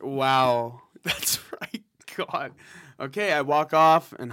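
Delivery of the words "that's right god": "That's right, God" whispered, unvoiced. Shown as a demonstration. Player answering the call to quiet down, whispering the line. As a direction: hush it to a soft whisper. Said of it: "Okay, quiet down".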